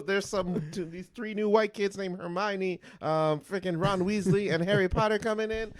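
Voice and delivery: high, loud scheming boss voice; mock scheming executive. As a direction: play a villainous studio boss. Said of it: "did they just like".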